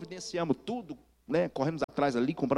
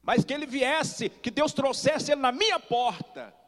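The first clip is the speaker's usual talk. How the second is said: lightly voiced old aunt, higher and slow; aunt's fervent prayer; 11 semitones higher than usual. Aunt recalls praying for her nephew, high and slow. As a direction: pray it slowly like the old aunt did.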